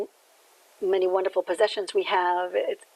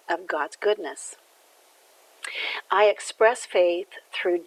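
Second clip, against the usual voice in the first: measured, even reading of a daily message; devotional reading. Acted. Minister reading the daily word to listeners, measured.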